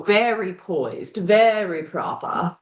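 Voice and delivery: a poised, proper British lady done badly; self-mocking bad British accent, drawn out; awful British accent. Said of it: "Did you hear that awful British accent?".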